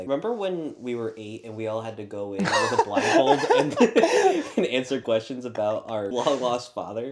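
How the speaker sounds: can't hold the quote together for giggling; laughing through it. Retold or imitated. Imitating adult recalling childhood.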